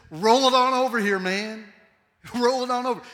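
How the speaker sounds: Jesus inviting you, easy and loud; casual Jesus. Pretend. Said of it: "and Jesus says".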